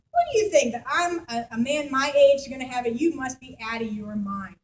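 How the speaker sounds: scoffing, sceptical brush-off; waving the news away with contempt; old Zechariah scoffing at the angel; dismissive attitude. Retold or imitated. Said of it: "So he's got an attitude".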